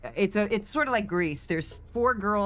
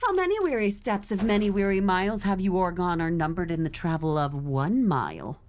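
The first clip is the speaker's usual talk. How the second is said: sassy Shakespeare line run on a single breath; a sassy retort to the traveller, in one breath. Shown as a demonstration. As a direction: deliver it sassy without stopping to breathe. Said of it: "very sassy if you can deliver it all on one breath".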